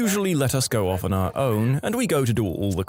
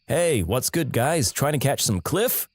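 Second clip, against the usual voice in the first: lightly voiced laid-back bro skier; casual dude, rising on the question; chill dude. Chill skier greeting the stranded brothers, lightly voiced laid-back dude. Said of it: "some really chill dude".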